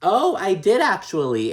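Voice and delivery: high-pitched mock-defensive quote; lifted, put-on protest; Dorit. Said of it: "And Dorit's like".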